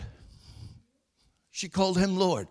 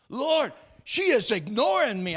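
higher-pitched, aggrieved appeal; mock complaint; 5 semitones higher than usual. Preacher acts out complaint to the Lord, aggrieved.

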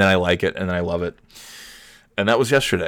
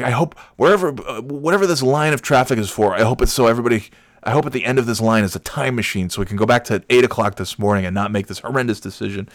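angry yelling; 3 semitones higher than usual. Retold or imitated. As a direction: act out an exasperated outburst. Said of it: "so angry and I'm just yelling".

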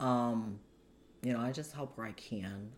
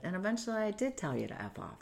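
laughing; 8 semitones higher, faster than usual. Real, not acted. Laughing at own punchline.

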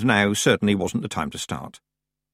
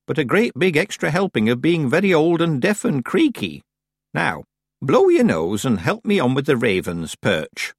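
put-on old witch voice; 6 semitones higher than usual. A narrator's reading. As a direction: speak as a stiff old witch. Old witch Miss Treason speaks.

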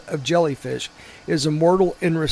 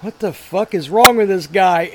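laughing disbelief; 5 dB louder than usual. Retold or imitated. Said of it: "walking off like".

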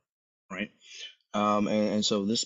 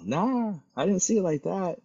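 sing-out, high-pitched friendly denial; friendly disagreement; 11 semitones higher than usual. Retold or imitated. Bystander answers upset man at gas station, cheerfully disagreeing. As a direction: contradict him with amiable ease. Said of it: "in the most friendliest manner possible".

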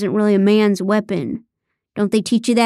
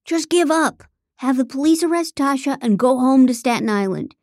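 taunting bluster; 3 semitones higher than usual. Acted. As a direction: crow over a beaten rival. Ethan overcompensating, taunting the narrator.

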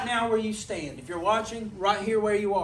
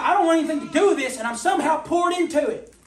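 fast, higher, lightly voiced flustered Pilate; confused Pilate; 7 semitones higher, 6 dB louder than usual. Preacher imitating Pilate wanting no part of it, lightly flustered. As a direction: rush it like a man dragged into a mess. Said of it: "he was like".

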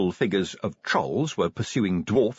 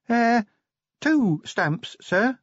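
put-on much higher, timid young dwarf voice; young dwarf Cheery; 14 semitones higher, much slower than usual. A narrator's reading. Cheery correcting Vimes about the stamps, timid and high. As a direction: correct the boss gently, pitched up high.

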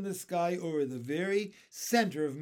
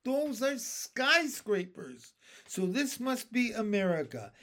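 excited; 5 semitones higher than usual. A narrator's reading. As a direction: announce a thrilling discovery, stretching key words. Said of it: "jumping up and down with excitement".

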